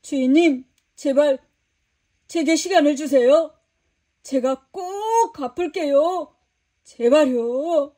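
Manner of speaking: begging. Acted. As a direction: beg the master on your knees. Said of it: "무릎을 꿇고 싹싹 빌었단다".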